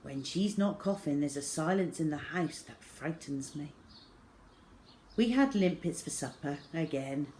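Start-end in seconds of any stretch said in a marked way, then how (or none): none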